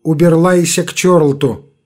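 "Уберлайся" with the r turned to a w-like sound; "Уберлайся" with a lisping burr, no rolled r. Acted. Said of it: "отвечает своим картавым голосом".

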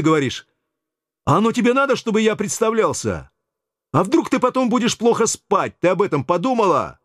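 cheeky bully on the phone; brash Yura. Acted. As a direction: push the receptionist around with swagger. Yura bullies the receptionist.

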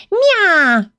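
громкое мяуканье повыше; мяукнуть, дразня стражу; высокий кошачий мяв. Acted. (кошка дразнит стражу: высокое громкое «мя»)

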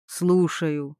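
low, dry answer; flat and distant, a busy man; lightly voiced cold male tone; dry, detached. A narrator's reading. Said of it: "Сухой, отстранённый".

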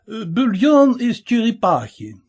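hint of a fussy French host; French restaurateur. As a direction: play the polite French caterer, eager to please. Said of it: "пояснил француз".

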